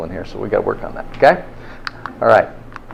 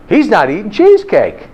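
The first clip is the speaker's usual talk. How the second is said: higher, announcing the news; cells' message; 8 semitones higher than usual. Retold or imitated. The body's cells passing on the news, higher. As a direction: relay it like a bulletin racing through the body. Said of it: "start getting this message of".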